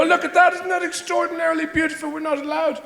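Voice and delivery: high, awed then guilty; mock wonder. Irish Catholic admiring a sunset, awe turning to guilt. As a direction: gasp at the sunset, then pull back.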